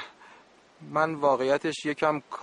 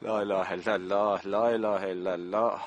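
low, weary muttered invocation; exasperated prayer; 9 semitones lower than usual. Acted. Old camp manager losing patience with the boy sentry, low exasperated sigh.

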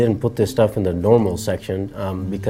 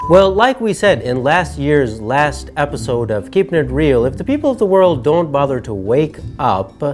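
emphatic, measured presenter delivery; scripted commentary, falling away at phrase ends; show presenter read. Acted. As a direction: deliver the year-in-review script with punchy openings. Presents a scripted year review.

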